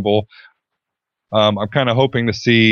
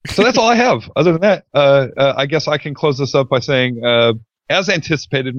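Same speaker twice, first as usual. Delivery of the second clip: high squeaky chipmunk voice, easing down; 4 semitones higher than usual. Acted. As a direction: pitch way up like a chipmunk, then settle. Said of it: "uh, Alvin the Chipmunk voice".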